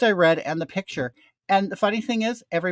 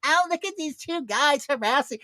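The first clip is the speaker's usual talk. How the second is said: retold taunt; 3 semitones higher than usual. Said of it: "And I said".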